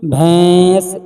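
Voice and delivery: भैंस slow with nasal ऐ; nasal vowel. Shown as a demonstration. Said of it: "नून की बू आएगी". (भैंस नून की बू के साथ)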